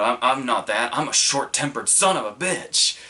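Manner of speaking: imitated feeble bluster, punched words; half-convinced mock outburst; trying to sound fired up. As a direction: act worked up without fully believing it. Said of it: "trying to get all, you know, fired up".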